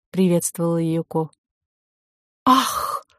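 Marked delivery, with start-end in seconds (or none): 2.4-3.1 sharp startled ah; a quick high cry of surprise; surprised gasp. A narrator's reading. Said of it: "воскликнула директриса".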